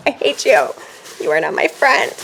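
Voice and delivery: fake-furious, punching it up; mock anger. Mock scolding viewers.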